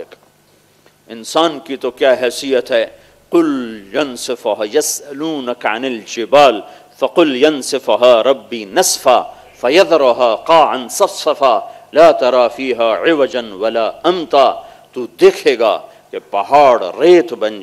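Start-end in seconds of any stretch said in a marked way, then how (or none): 3.3-14.5 slow chanted Arabic recitation; Quran recitation. Acted. Preacher recites verses of the earthquake, slow chant. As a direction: intone each verse slowly.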